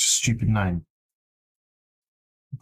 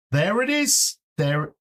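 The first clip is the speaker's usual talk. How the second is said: higher, sudden relieved find; relieved excitement; 8 semitones higher, slower than usual. Real, not acted. Dev finding his lost kitchen file, high and relieved. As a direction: pop up high when the file appears.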